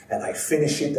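put-on "finish" rising, Italian accent, building. Carver telling the crowd, Italian accent rising. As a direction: lift "finish" like the story is still going. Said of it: "heavy kind of Italian accent".

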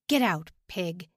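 rough barked command; gruff. Acted. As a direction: bark it like a harsh guard. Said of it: "His voice was gruff".

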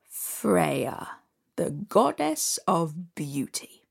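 low whispered sly demand; hushed, slow and sinister; low looming threat. Acted. Stranger names his price.

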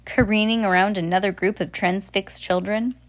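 whispered narration. Real, not acted. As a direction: let the voice drop to a whisper. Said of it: "unvoiced line".

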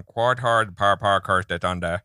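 put-on a thick, mumbled Missouri accent slurring "Quad Hard Par Par Cars de Donda"; a hammed-up Missouri drawl with the words mashed. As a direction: deliver the deal as a Missouri local with the words run together. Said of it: "Is that your Missouri accent?".

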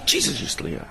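whispered, urgent and scared; frightened whisper. Retold or imitated. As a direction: garden boy panicking in a whisper. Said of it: "he says".

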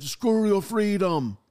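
bad Austrian accent impression; Arnold Schwarzenegger. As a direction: stretch the words in a heavy Austrian accent. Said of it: "But he said".

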